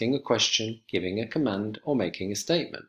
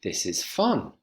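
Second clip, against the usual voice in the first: "fun" rising then dropping away; teacher modelling a rise-fall exclamation; rise-fall intonation. Shown as a demonstration. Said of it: "Exclamatory sentences have a rise-fall intonation".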